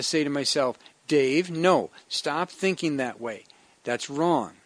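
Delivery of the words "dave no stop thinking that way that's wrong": scolding himself. Retold or imitated. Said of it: "I had to scold myself".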